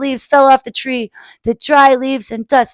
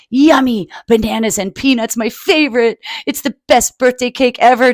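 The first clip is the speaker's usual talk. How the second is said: squealed; 2 semitones higher than usual. Acted. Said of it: "Trumpet squealed".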